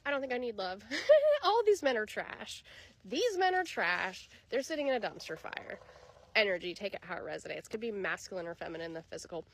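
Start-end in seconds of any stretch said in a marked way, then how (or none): 0.0-5.8 hardcore fed up. Retold or imitated. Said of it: "you really hardcore were like".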